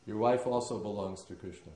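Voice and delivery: a teacher's blunt, mock-fierce tirade against a rich man; stern rebuke. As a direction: thunder at him like a stern guru. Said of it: "And Mahavishnu Maharaj said".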